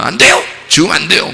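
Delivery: acted pleading protest. Peter begging Jesus not to die, acted pleading protest.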